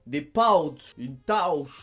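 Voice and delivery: pâte et tâche dits « paoute », « taouche »; A diphtongué québécois. Shown as a demonstration. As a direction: glisser de A vers OU dans pouts et tauche. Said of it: "Le A devient aou". (« pouts », « tauche » à la québécoise)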